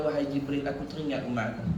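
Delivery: low, soft quoted answer; subdued retold reply. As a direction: retell it gently, voice dropped. Tearful Prophet answers Jibril, retold. (suara rendah dan perlahan)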